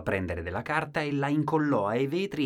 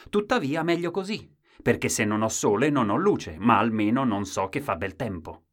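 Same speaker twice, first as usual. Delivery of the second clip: insistent husband; 3 semitones higher, 6 dB louder than usual. Acted. Husband justifies himself.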